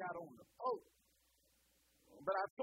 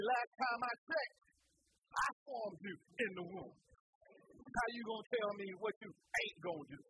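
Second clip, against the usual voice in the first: God rebuking. Acted. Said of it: "God said".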